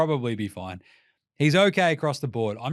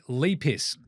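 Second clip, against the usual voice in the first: mock French. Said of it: "as the French would like to say".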